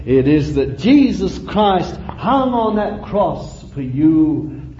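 slow, drawn-out sermon delivery; measured appeal from the pulpit; earnest preaching. Real, not acted. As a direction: preach it slowly, dwelling on each phrase. Preaches slowly to congregation.

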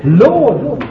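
high, loud wailing Lords; mock begging prayer. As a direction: parody a selfish pleading prayer. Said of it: "You say".

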